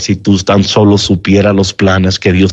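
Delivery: reach the listener gently; tender appeal. Real, not acted.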